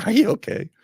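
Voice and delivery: laughing through a high, loud mock question; laughing mockery. Commentator laughs while parroting the mayor's taunt, high and loud.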